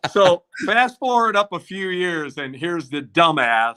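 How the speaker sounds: self-mocking, still laughing. Real, not acted. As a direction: tell it still amused at yourself. Still laughing, mocks himself.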